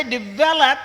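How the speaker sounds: "Develop" with the stress on the second syllable, "vel". Shown as a demonstration. A lecturer showing students where the stress falls in "Develop". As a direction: lean on the middle of "Develop". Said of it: "second syllable stress".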